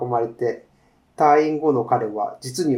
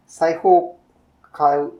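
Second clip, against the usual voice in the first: a shopkeeper lightly voiced in a Kansai accent; easy Kansai shop talk, lightly voiced; Kansai dialect. The shopkeeper talks with a customer, a light Kansai accent. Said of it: "関西弁ですね".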